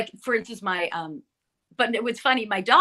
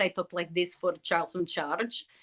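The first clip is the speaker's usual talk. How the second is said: Yugoslavian accent, lower pitch and quieter; 7 dB quieter than usual. Voice actor shows the voice used for Charles in Charge: Yugoslavian accent. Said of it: "And Yugoslavian accent".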